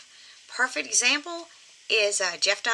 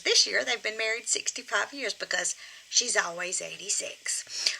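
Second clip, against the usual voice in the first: whispered aside; 5 dB quieter than usual. Real, not acted. Aside about puppet's fixed age.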